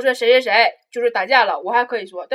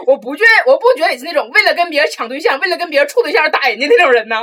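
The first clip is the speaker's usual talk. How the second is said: higher, louder, preachy teacher voice; mock teacher lecture; 5 semitones higher, 8 dB louder than usual. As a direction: ham up the teacher's earnest lecture. (夸张模仿老师说教)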